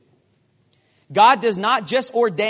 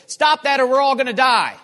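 urgent shout; 8 semitones higher, 8 dB louder than usual. Acted. Paul warns sailors in lifeboats.

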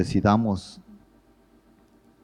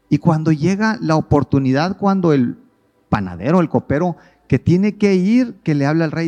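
louder and higher as it builds; climbing fervent preaching voice; rising excitement; 7 semitones higher, 5 dB louder than usual. Real, not acted. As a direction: build the story to a peak.

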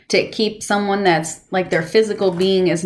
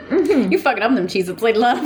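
laughing; 5 semitones higher than usual. Real, not acted. Teasing friend about noisy snack.

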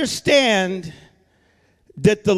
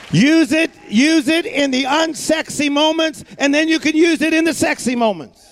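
preaching fervor; 4 semitones higher than usual. Real, not acted. Preaching climax.

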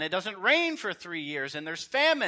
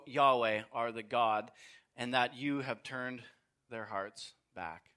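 reverent prayer; 4 semitones lower than usual. Acted. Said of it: "approached the altar and said".

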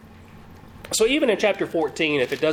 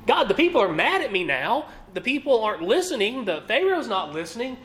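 higher, a touch of frantic pleading; mock-panicked plea to God; panicked Moses; 5 semitones higher than usual. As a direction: voice Moses as a worried man at his wits' end. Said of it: "sense of panic maybe in Moses' response".

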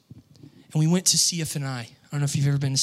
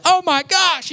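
much higher and louder, gushing; excited friend; 7 dB louder, slower than usual. Retold or imitated. Friend reacting to the prophecy, gushing excitedly. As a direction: gush like he can't contain himself. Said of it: "He was like".

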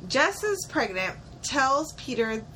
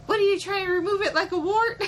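high, incredulous mock outrage breaking into laughter; mock freak-out; 9 semitones higher, 4 dB louder than usual. Co-host playing the boyfriend who freaks out, hammed-up outrage. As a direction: imitate his indignant outburst, amused. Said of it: "He freaks out".

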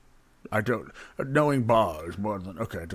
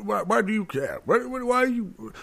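exasperated; 13 semitones higher, 3 dB louder than usual. Acted. Barman exasperated, voice rising.

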